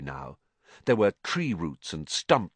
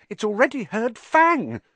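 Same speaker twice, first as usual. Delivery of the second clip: squeaky, much higher and louder; unnaturally high voice; 14 semitones higher, 5 dB louder than usual. A narrator's reading. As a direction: keep the frightened squeak going. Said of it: "in an unnaturally high voice".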